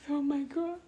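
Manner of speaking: high-pitched "oh my God"; embarrassed little exclamation, acted out; retold dismay. Retold reply to teasing girls.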